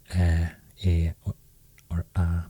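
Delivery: ä, e and a sounded as bare vowels, no y onset; vowel without j. Shown as a demonstration. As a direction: sound out ä, e, a one by one. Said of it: "left, and not the j in the beginning".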